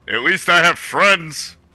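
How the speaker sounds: delivered at a high pitch. In a game scene, answering the cackling Labyrinth Lord, shouting up. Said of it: "shout up".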